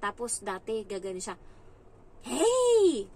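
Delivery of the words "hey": sharp high yell of hey, much louder; a kid snapping at the helper; rude shout. Retold or imitated. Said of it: "hate na hate ko talaga yung salita".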